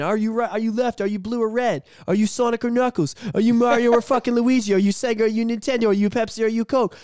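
building rant. Real, not acted. Ranting list of divisions.

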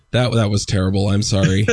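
sick, blocked nose; stuffy nose. Real, not acted. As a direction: talk through a stuffy cold. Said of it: "I'm sick".

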